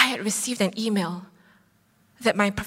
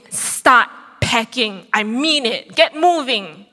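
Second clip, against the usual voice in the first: firm command; 5 dB louder, slower than usual. Retold or imitated. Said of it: "the Lord said".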